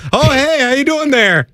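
high, lightly mocking Down East accent; mock Maine accent. Mimicking the co-host's failed Scottish, mock Maine accent. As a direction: parrot his odd accent with a high twang. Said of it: "what are you in Maine now?".

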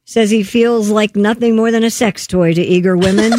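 radio news story delivery; news read. Real, not acted. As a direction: read it out like a newscaster.

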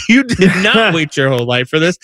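"not" punched in a mock retort; stress on NOT. Dad correcting his crying son, stress on "not". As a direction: hit the word "not" to contradict him.

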